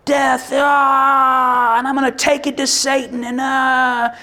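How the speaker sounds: high, driven battle vow; heroic boast. Retold or imitated. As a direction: swagger like you'll storm hell itself. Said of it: "we want that moment where it's like".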